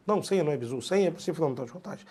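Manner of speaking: ordinary talk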